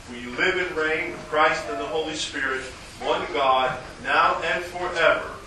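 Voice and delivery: ordinary talk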